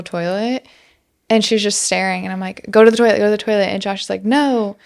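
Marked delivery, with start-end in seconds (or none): 2.7-3.7 urgent repeated yelling. Retold or imitated. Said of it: "I'm yelling". 4.2-4.8 raised, higher yelling. Retold or imitated. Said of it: "I'm yelling".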